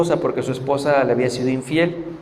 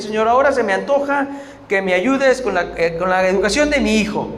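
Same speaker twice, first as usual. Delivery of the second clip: a mildly mocking, entitled demand to God; sarcastic prayer; 3 semitones higher than usual. Preacher mocks a sinner bossing God around, lightly sarcastic. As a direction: toss it off like ordering a servant, lightly sarcastic. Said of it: "pero sarcásticamente lo puedo decir".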